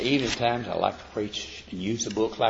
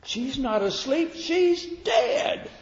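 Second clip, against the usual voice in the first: incredulous onlookers; 13 semitones higher, slower than usual. Retold or imitated. Onlookers answer Jesus about the dead girl, incredulous. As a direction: voice climbing very high in disbelief. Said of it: "look at him and say".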